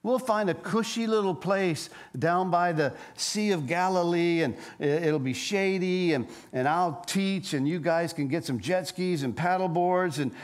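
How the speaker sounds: playful mock invitation to a cushy life; mock laid-back Jesus. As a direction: sell them an easy holiday. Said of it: "he didn't say".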